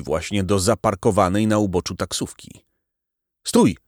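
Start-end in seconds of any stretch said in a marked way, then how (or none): 3.5-3.8 sharp high shout to stop her. Acted. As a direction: call out loud to make her stop. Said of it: "krzyknął". (głośny, wysoki okrzyk)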